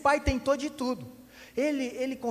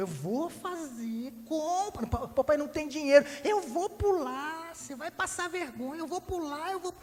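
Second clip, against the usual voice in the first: a little brat drawling his threat; whiny child; 6 semitones higher than usual. Acted. Boy threatening dad before jumping down, high childish whine.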